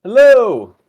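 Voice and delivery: high, very loud call into an empty hall; full-voiced shout. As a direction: holler out, stretching the greeting. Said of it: "Kane will just shout".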